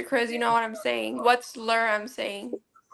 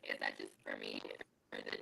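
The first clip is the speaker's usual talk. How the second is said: garbled robotic mic sound; 16 dB quieter, faster than usual. Real, not acted. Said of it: "You sound like you're a robot".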